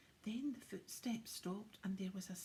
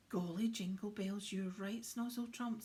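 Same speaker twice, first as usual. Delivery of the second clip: hearty Santa exclaim; 5 dB louder than usual. Acted.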